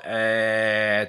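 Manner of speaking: "えー" drawn out as a squashed æ; squashed "æ" sound. Shown as a demonstration. Teacher showing the American vowel, squashed "えー". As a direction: flatten "えー" into a long American æ. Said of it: "ちょっと潰れたような".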